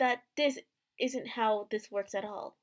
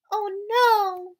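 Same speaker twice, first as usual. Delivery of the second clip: higher, louder startled yelp; alarmed cry; 8 semitones higher, 6 dB louder than usual. Acted. Emma caught in the dining hall, crying out in alarm. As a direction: blurt it out in sudden alarm.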